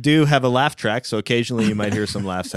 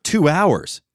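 higher-pitched surprised question; incredulous; 7 semitones higher, 4 dB louder than usual. Real, not acted. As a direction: echo it back in disbelief. Disbelief at time spent replying.

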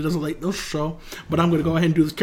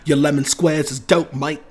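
breezy mock London slang; British accent. Imitating a British lad for friends, light London accent. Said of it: "I just put on an accent".

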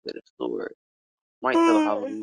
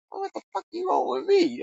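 high-pitched, hammed-up spooked plea; mock-frightened squeal of a question; spooked protest. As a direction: play up panicked protest at a ghost. Acts out yelling at the spirit.

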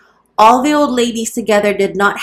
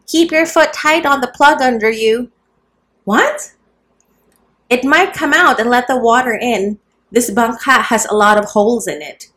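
raised, higher voice calling across the boat; loud warning; 4 semitones higher than usual. A narrator's reading. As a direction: call out the warning loudly, a little higher. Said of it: "in a loud tone".

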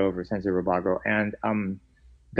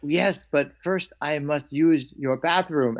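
slow, slightly higher, lightly voiced Kung Fu monk imitation; a kid solemnly copying a TV monk, slowed; Kane from Kung Fu; 4 semitones higher, slower than usual. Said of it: "I needed to talk like Kane from Kung Fu".

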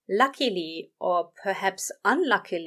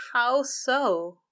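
nervous, higher and wobbly; shaky and high-pitched; 5 semitones higher, 3 dB louder than usual. Acted. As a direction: voice climbing with nerves. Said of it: "the words came out shaky and high-pitched".

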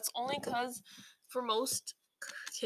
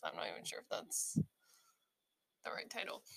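unsure whisper to self; whispered aside; 13 semitones lower, 6 dB quieter than usual. Real, not acted. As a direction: drop to a breathy whisper. Unsure aside about song title.

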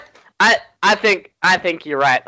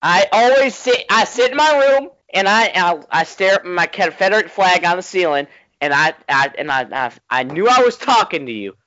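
gushing fan; 7 semitones higher than usual. Pretend. Fanboy gushing to his hero.

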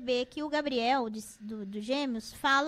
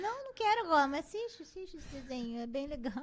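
lightly voiced child and mother; mock child refusal. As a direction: play the kid saying no. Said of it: "eu dou a tela pra ele e falo".

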